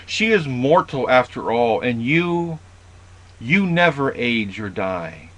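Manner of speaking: measured dramatic reading of Homer; epic reading aloud. Acted. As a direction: read it as epic verse, giving Odysseus his plea. Reads Odysseus' reply from the book.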